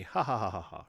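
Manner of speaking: spoken fake ha-ha-ha; half-hearted pretend laugh; mock laugh. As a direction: imitate simple-minded laughter, word by word. Mimics simple kids' movie fun.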